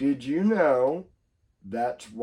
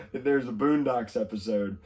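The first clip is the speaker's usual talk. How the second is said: ordinary talk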